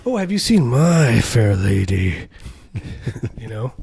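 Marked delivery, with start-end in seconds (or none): 0.0-2.3 "My" stretched long mid-question; slow down and swell on "My"; possessive MY. Shown as a demonstration. Asking about the film, possessive stress on "My". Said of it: "with a little bit of a possessive growl".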